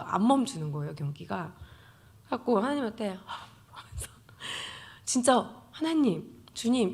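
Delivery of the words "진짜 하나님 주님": slow, louder, higher protest; a retold complaint to God, drawn out; an exasperated cry of "주님", stretched slowly; mock confrontation with God. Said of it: "제가 따지려고".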